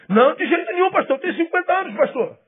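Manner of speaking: protesting churchgoer. Acted. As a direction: play a member shocked at the pastor's hint. Pastor voices congregant protesting.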